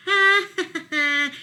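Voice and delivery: high loud mocking ha ha; hammed-up taunting laugh. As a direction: jeer like a pointing fox. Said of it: "laughed Fox".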